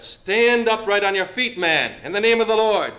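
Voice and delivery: loud, commanding call with authority; authoritative command. Shown as a demonstration. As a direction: order him up in the name of the Lord. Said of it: "it's authority coming out".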